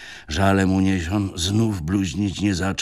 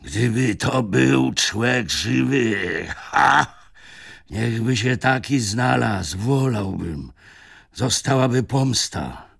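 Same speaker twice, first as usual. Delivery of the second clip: slow, higher, strangled outburst; choked broken cry; 5 semitones higher, slower than usual. Acted. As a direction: force the words out through a choked throat. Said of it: "zakrzyknął przyduszonym i urwanym głosem".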